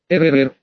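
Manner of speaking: ordinary delivery, nothing marked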